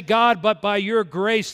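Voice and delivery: earnest prayer. Retold or imitated. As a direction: pray it out, slow and strong. Pastor voices his own prayer.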